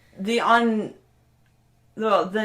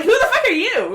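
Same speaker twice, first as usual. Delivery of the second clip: tough Ben; 11 semitones higher, 4 dB louder than usual. Retold or imitated. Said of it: "he's like".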